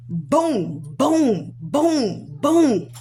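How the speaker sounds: heavy, separate booms; imitated punch blows. Retelling being punched while pinned, imitated thudding blows. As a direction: boom out each blow, evenly spaced.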